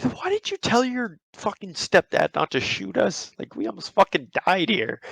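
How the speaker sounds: high-pitched, incredulous acted complaint; exasperated reproach. Pranksters reproach friend over stepdad's gun, acted exasperated reproach. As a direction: demand an explanation, acting out exasperation.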